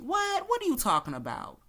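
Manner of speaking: mock gaslighter. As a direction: scoff it off like a dismissive boss. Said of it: "the gaslighting".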